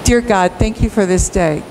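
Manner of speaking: an easy, unhurried thank-you to God; relaxed everyday prayer; calm polite prayer. Shown as a demonstration. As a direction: say it like a routine grace. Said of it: "Hear the difference in urgency?".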